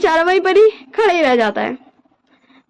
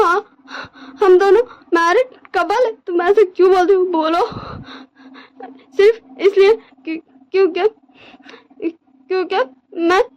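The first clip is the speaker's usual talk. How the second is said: crying plea; 3 semitones higher than usual. Acted. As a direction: beg through tears, breaking down. Wing sobs, begs his husband. (रोते हुए बिनती करना)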